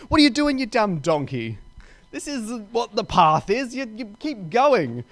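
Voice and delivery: sharp high start, then easing into a mock scold; furious retold rebuke. Rider scolding the stopped donkey, milder mock anger. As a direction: scold the donkey like an impatient master. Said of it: "He's getting furious".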